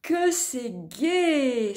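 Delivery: slow, drawn-out delight; joyful exclamation. Acted. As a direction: savour the joy. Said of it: "s'exclame Delouze".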